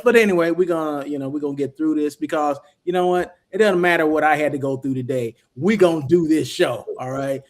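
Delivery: numb mouth, slightly slurred; numb from the dentist. Real, not acted. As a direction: talk through a numbed mouth. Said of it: "with numb mouth and everything".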